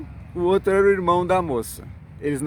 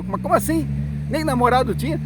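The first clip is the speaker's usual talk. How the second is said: shocked disbelief; 5 semitones higher than usual. Retold or imitated. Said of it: "quem ficou assustado foi eu".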